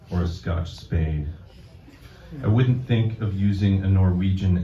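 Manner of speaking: deliberate deadpan delivery, phrase by phrase; poetry reading. Acted. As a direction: read a mock-solemn poem to an audience. Reads own poem to audience.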